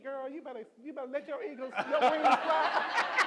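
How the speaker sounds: high, stretched, cheering and laughing; hyped-up inner voice. Retold or imitated. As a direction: urge yourself on like a proud alma mater. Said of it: "North Carolina Central in me said".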